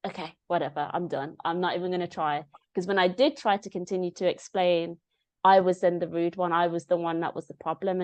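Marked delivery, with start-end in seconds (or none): 0.1-2.4 retold resignation. Acted giving up on teachers.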